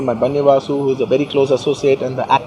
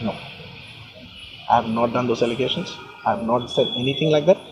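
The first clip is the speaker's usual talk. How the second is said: lower, softer humble denial; utmost humility; 5 semitones lower, 9 dB quieter than usual. Real, not acted. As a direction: deny it humbly, keeping the voice low and soft. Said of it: "with utmost humility".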